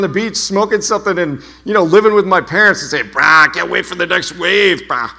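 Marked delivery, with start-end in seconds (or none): 3.1-5.1 exaggerated Californian surfer-bro accent; bad surfer accent. Speaker mimicking himself as a beach bum to his parents, bad surfer accent. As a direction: put on a terrible surfer-dude accent. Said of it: "that was a terrible accent".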